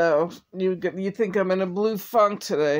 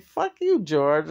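mock outburst; slower than usual. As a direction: fling it back at him half-joking. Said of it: "I'm like".

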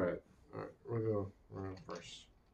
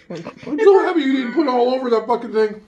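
pained laughter; 7 semitones higher, 5 dB louder than usual. Real, not acted. Laughing through spicy pain.

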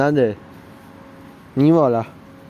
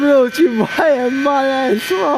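overjoyed; 3 semitones higher, much slower than usual. Real, not acted. Train returns, vlogger overjoyed.

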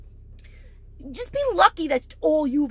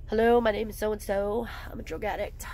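mock meeting intro; 4 semitones lower than usual. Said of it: "and then here comes".

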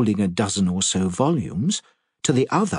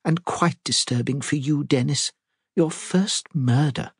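put-on fluttery old lady; 5 semitones higher than usual. Miss Marple voiced.

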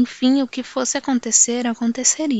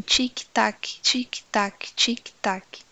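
clock ticking; 3 dB quieter, much slower than usual. Acted. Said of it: "ouvir os pingos diminutos do tempo assim".

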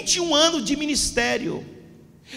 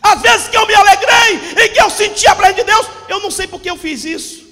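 preaching at full force; 3 semitones higher, 6 dB louder than usual. Acted. Pastor warning the church about Satan, preaching hard. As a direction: hammer each phrase home to the congregation.

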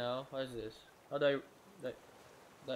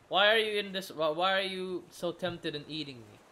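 loud, higher-pitched protest; exasperated scolding; 5 semitones higher, 8 dB louder than usual. Real, not acted. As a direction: yell at the animal in disbelief. Scolds shark trying to eat player.

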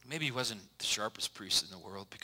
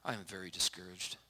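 discouraged; 6 dB quieter than usual. Acted. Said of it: "she replied".

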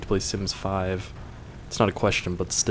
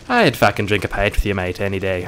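loud, hammed-up Australian accent, louder; mock Australian accent; 5 dB louder than usual. Accepting an Irish fan's pint offer in a mock Australian accent. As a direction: bellow it like a rowdy Australian mate. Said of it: "Oh, is that Australian?".

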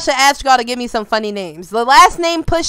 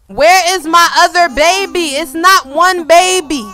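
insistent; 4 dB louder than usual. Pretend. Demanding the other twin.

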